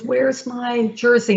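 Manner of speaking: slow, lightly voiced imitation of the daughter's speech; a gentle hint of Sadie's way of talking. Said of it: "In her kind of speech".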